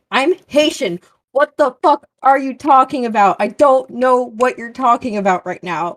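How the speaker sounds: retold disbelief. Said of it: "And I'm like".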